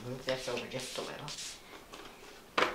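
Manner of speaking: a soft whisper to herself, slow and unvoiced; whispered aside. Real, not acted. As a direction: murmur it under your breath while busy with the paper. Aside to herself while working.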